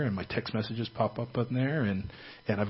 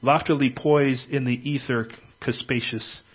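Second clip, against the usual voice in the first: reading a poem. Shown as a demonstration. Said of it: "I'm gonna read you a poem".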